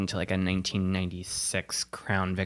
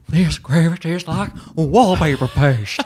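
loud, slow, high outrage; imitated tantrum; 7 semitones higher, 8 dB louder, slower than usual. Comic founder tasting gravy at his franchise, outraged. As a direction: throw a hammed-up fit over the food. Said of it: "slam it on the ground and have a fit".

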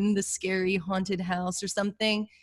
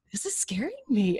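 hushed, voiceless whisper to oneself; uneasy whispered aside; scared whisper; 4 semitones higher than usual. Retold or imitated. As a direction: whisper it as a retold fearful thought. Retold fearful thought in house.

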